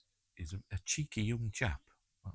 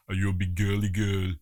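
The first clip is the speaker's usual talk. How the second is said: taunting tough guy; 7 dB louder than usual. Retold or imitated. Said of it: "That's what he'd be saying with Arnie".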